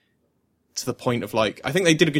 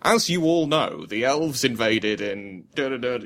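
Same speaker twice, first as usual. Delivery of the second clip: exposition narrator. Retold or imitated. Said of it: "doing that thing of".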